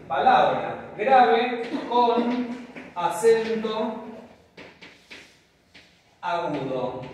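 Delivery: slow and emphatic, spelling it out; slow dictation. Shown as a demonstration. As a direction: dictate it slowly and clearly for the board. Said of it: "vamos a poner así".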